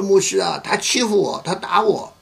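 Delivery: tearful complaint. Retold or imitated. Wife crying to the pastor about her husband, imitated wailing. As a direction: wail it out like a wronged wife. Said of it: "大哭了".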